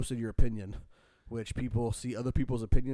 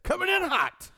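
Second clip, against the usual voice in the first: high mocking squeak; 5 dB louder than usual. Mocking the commenter.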